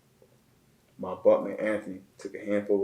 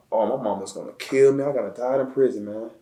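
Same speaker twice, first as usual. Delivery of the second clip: retold panic; 4 semitones higher, 4 dB louder than usual. His panicked thought near death.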